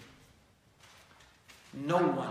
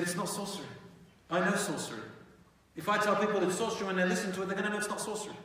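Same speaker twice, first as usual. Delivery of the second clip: firm refusal; 5 semitones higher, much faster than usual. Acted. Al-Walid refusing the leaders.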